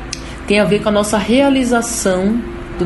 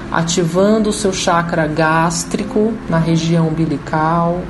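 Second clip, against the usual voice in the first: guided meditation. Acted. Leads a guided chakra meditation.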